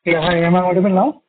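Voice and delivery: muffled, as if behind a hand. Real, not acted. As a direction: voice blocked and loud. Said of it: "your voice is very muffled".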